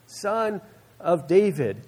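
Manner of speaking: half-shouted call, drawn out at the end; retold yell. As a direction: imitate calling over a crowd without full volume. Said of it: "yelling above the crowd".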